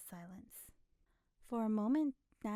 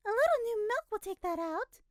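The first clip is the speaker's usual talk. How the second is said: put-on high, loud smug old woman; nosy woman, complacent; complacent busybody; 13 semitones higher, 10 dB louder than usual. A narrator's reading. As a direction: offer advice with smug self-satisfaction. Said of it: "complacently said".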